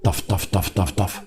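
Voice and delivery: soft, low thumping "taf taf"; imitated heartbeat. Policeman imitating a suspect-watcher's pounding heart, soft thuds. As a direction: tap out a heartbeat with the voice, softly. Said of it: "راه قد تيضرب".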